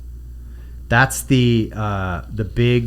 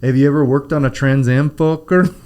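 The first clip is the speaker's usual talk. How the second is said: The Rock voice. Retold or imitated. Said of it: "like The Rock".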